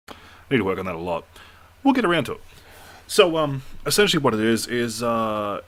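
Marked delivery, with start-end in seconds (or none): 0.1-1.2 fast, offhand self-remark; quick plain aside. Real, not acted. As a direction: rush it out casually.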